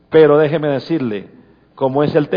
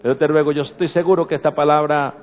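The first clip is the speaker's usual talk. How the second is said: prayer. Acted. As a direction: pray gently over the congregation. Pastor leads closing prayer.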